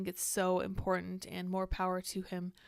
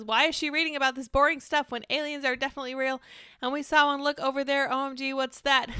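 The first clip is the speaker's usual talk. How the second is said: mock chat voice; 4 semitones higher, 5 dB louder than usual. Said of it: "Andy says".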